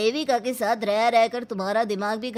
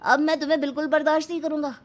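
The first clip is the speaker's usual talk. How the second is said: fast, higher angry outburst; angry threat; 5 semitones higher, faster than usual. Acted. Husband threatening his defiant wife, fast angry outburst. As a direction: rattle off the threat in rage.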